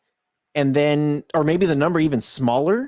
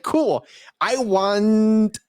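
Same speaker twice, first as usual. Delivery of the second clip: laughing; 4 semitones higher, much slower than usual. Retold or imitated. Joking about guessing sizes.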